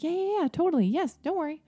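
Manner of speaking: high, breezy brush-off; breezy mom. Retold or imitated. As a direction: wave off the worry lightly. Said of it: "my mom's like".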